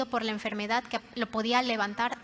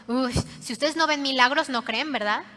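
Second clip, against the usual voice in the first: louder, mock-scolding take with a scoffing "uy"; mock reproach; 4 dB louder than usual. Shown as a demonstration. Preacher showing how Jesus did not say it, mock reproach. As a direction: act out a taunting reproach. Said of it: "no se lo está diciendo como".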